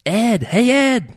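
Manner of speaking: high, loud shrimp voices hailing Ed; calling out. A narrator's reading. Shrimp hail the fisherman from the bait bucket, calling out. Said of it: "they called".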